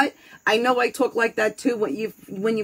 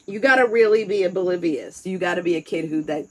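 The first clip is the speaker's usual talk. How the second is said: ordinary talk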